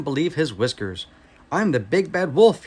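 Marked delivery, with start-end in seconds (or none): 1.5-2.6 louder, higher angry wolf; wolf furious at the brick house; frustrated howl. Acted. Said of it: "he howled".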